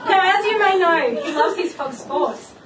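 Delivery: a light sing-song rhyme read with giggles; bride-to-be reads her jokey poem to guests, lightly sing-song; rhyming poem recital. Acted. Reading her engagement poem to friends, amused. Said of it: "one more very average rhyme".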